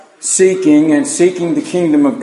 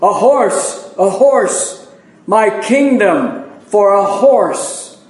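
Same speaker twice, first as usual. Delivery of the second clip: slow, drawn-out desperate plea for a horse; King Richard's cry; 3 semitones higher, much slower than usual. Acted. Preacher voicing King Richard in battle, slow dramatic cry. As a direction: declaim it like a king who has lost his horse. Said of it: "And Richard himself is saying".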